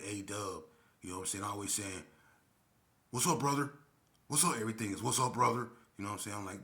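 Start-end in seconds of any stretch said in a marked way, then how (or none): 3.1-4.6 mock greeting. Mocking the loud white boy. 5.0-5.7 mock greeting. Mocking the loud white boy.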